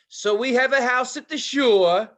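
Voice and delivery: high, loud mock rant about dog mess; ranting phone call. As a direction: imitate the owner ranting on the phone. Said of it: "she says".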